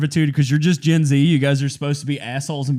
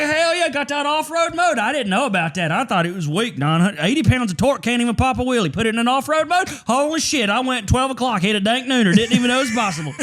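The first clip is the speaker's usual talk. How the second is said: mock hyped bro; 6 semitones higher than usual. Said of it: "I was like".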